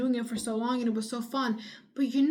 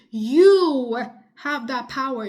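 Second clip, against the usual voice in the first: slow, much louder, every word hammered; shouting; 2 semitones higher, 9 dB louder, much slower than usual. Real, not acted. Urging a struggling viewer to take control, slow fierce shout. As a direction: yell it to wake them up. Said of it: "Sorry for screaming a little".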